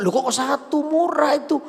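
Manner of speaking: high, rising-in-volume protest; surprised father. Acted. Father questions child asking only one bangle, surprised.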